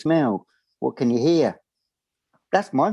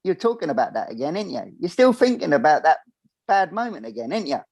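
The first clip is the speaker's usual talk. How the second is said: high, teasing inner nag; 6 semitones higher than usual. Retold or imitated. Mocking himself as his own inner voice, lightly teasing. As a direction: needle yourself like a mocking little voice. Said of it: "that little voice inside your head ... going".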